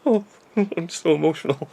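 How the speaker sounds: high, mocking fake-emotional voice; mum's high mock sob. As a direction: take the piss, high and gushing. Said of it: "just taking the piss".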